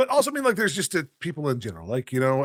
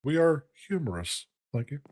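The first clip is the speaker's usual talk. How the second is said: Hank Hill. Retold or imitated. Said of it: "Hank Hill impression".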